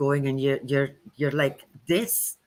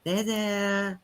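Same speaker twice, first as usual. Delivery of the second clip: softer, hushed "There, there"; soft soothing; 3 semitones higher, 6 dB quieter than usual. Retold or imitated. Settling a frazzled friend, a soft hushed comfort. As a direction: hush them gently. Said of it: "fluff up their aura and say".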